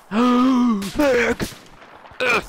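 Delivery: high, loud call for medic; man down shout. Acted. Calling for a medic.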